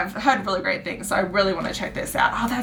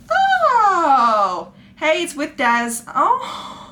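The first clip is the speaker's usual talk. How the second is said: surprised shout; 6 semitones higher, 3 dB louder, much slower than usual. Real, not acted. Surprised while unboxing a package.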